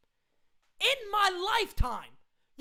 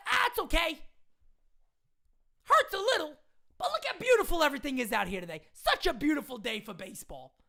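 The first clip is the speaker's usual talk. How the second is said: lightly voiced cheerful manager, trailing lower; mock breezy manager; 3 semitones lower than usual. Fan mocking the manager's shrug after the loss, breezy. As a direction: airily brush off the loss. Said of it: "Now he comes out".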